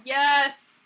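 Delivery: loud delighted cheer; thrilled shout of yes; excited yes. Real, not acted. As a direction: burst out with approval. Delighted by a viewer's name.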